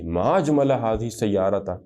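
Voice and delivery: ما اجمل ھذہ السیارۃ slowly, weight on اجمل; slow model reading. Shown as a demonstration. Teacher giving the full exclamation to students, slow. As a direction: say the whole exclamation deliberately. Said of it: "آگے آپ نے کہنا ہے".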